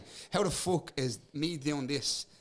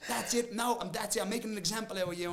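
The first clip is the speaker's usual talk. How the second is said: raised, mock-officious promoter voice; 8 semitones higher than usual. Fighter mimicking the promoter who fined him. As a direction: do the pompous promoter handing down a fine.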